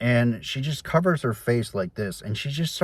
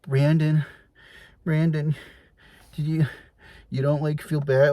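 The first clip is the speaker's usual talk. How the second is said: imitating mom; 6 semitones higher than usual. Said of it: "she's like".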